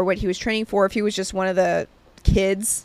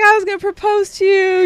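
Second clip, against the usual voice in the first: mock suitor; 10 semitones higher, 4 dB louder than usual. Gym guy proposing to a married woman, high mock-smitten voice. Imitating the gym admirer's flirting.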